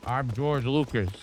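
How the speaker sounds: put-on mumbling old director musing about cutting costs, barely changed voice; George Lucas impression. George Lucas praising AI films, lightly voiced impression. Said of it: "That's my George Lucas impression".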